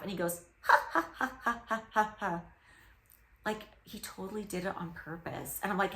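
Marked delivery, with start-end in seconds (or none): 0.6-2.4 staccato put-on cackle, like a parrot copying people; mock laugh in even, separate bursts; imitated human laugh. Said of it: "imitate a human laugh".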